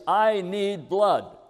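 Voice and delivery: slow, strained urgent plea; desperate man on a rickshaw, pleading. Retold or imitated. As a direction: mimic a frantic stranger begging. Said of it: "and he's all excited".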